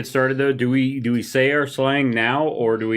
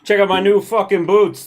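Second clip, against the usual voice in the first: higher, louder cocky goblin brag; goblin slang voice; 8 semitones higher, 5 dB louder than usual. Acted. Morgan's goblin bragging about new boots. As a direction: show off the boots with swagger. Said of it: "the A was something you just added".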